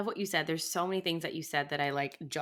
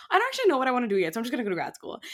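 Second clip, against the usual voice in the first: mock student; 8 semitones higher, 8 dB louder, much faster than usual. Mocking the classic grad school reason.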